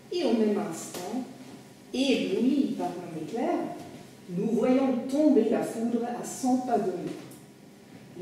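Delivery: animated French literary reading, phrase by phrase; story narration. Acted. Memoirist recounting his adventure in the storm, animated narration. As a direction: narrate the episode with dramatic rises and falls. Reads storm episode aloud.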